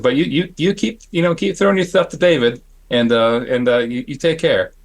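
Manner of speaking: imitated lisping send-off, hesitant; Dick Smith lisp. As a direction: lift the voice and lisp lightly. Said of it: "He had a little bit of a lisp".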